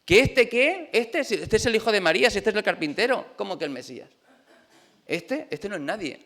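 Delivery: mock scornful disbelief; acted contempt. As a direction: play scoffing townsfolk who won't believe it. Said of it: "la gente le menospreciaba".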